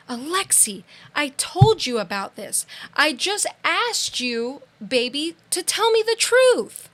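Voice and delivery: a mother begging her daughter for the truth; pleading mother. Retold or imitated.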